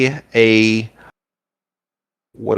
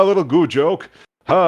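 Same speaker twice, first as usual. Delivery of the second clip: high jelly chuckle; goo voice laughing; 6 semitones higher than usual. Acted. Goo shopkeeper laughing at his own joke, high voice. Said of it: "He goes".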